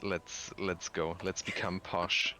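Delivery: hammed-up posh British tea talk; terrible British accent. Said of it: "a pretty terrible British one".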